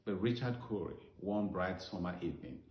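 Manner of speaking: storytelling verse recital, line by line; measured recital that sinks to a hushed close; poem recitation. Acted.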